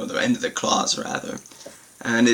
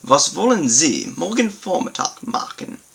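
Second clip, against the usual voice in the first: Was wollen Sie morgen Vormittag machen read higher, stress on wollen; German model sentence; 5 semitones higher than usual. Shown as a demonstration. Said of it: "for better emphasis on this concept".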